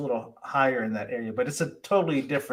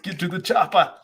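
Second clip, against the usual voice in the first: higher-pitched mock action-hero call; hammed-up movie quote; 4 semitones higher than usual. Co-host repeats the catchphrase for listeners, hammed-up. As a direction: toss out the catchphrase in a put-on voice.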